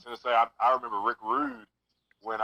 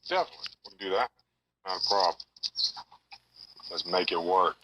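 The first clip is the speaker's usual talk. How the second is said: like a caller on speakerphone; phone speaker; 3 semitones lower, faster than usual. Real, not acted. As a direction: voice over a speakerphone line. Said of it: "You're on speakerphone right now".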